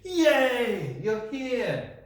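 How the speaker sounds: a high, loud laughing cheer of welcome; Grandma greeting the hero, loud and delighted; excited scream. Acted. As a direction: squeal it as the granddaughter walks in. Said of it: "That's what Grandma screams".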